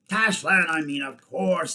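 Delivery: high, loud hasty correction; loud ape voice, stretched at the end; ape orator. A narrator's reading. Ape correcting himself to the captain, in a loud orator voice.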